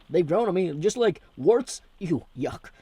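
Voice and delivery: high loud slow punchline; mock disgust. Joking to viewers about Australians, slow high mock punchline. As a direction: drag out the gag with disgust.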